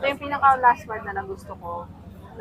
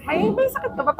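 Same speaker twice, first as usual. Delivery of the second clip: concerned question; 12 semitones higher than usual. Retold or imitated. Voicing concerned boss.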